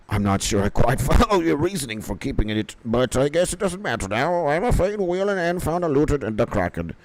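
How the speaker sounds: lightly put-on pirate storyteller; quest character voice. Streamer voicing quest dialogue about a cursed map, in a lightly acted pirate voice.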